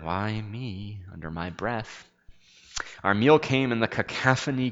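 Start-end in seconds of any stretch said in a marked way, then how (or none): 0.0-1.0 whispered. Retold or imitated. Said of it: "I whispered".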